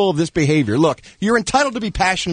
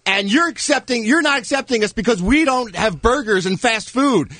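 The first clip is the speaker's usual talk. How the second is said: higher-pitched complaining activist, lightly acted; pitched-up imitation of indignant objection; mock indignant protest; 5 semitones higher than usual. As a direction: protest as the aggrieved group. Voicing PETA's protest in mock quote.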